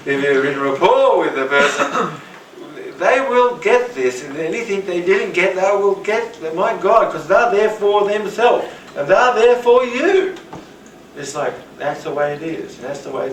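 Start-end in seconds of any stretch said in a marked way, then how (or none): 3.0-10.3 much higher and louder, fervent; excited insistence. Real, not acted. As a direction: drive it home with rising passion. Insisting passionately to students.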